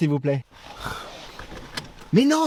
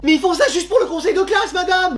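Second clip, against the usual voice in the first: high-pitched, indignant plea; protesting; 8 semitones higher than usual. Acted. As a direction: plead against an unfair punishment. Élève proteste contre son exclusion. (protestation aiguë et indignée)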